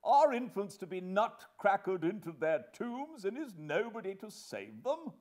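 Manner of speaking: high-pitched despairing protest; desolate desperation. Acted. Husband pleading for the infants, desperate. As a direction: burst out in helpless despair. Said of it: "in an outbreak of desolate desperation".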